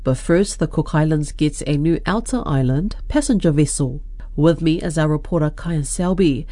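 measured radio news headlines; news presenter read. Real, not acted. Presenter opens the weekly Pacific business wrap-up, news read. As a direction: introduce the bulletin, then hand over to the reporter.

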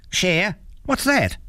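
high-pitched baffled question; puzzled troll. A narrator's reading. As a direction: ask as if the word is new to you.

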